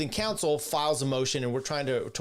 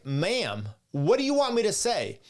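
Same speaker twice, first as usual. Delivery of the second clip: raised, sharp retort to the other lawyer; heated retort; 4 semitones higher than usual. Retold or imitated. Lawyer snapping at opposing counsel over a bad motion, heated and raised. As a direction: push back hard and high, talking down to her. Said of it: "I was a total dick".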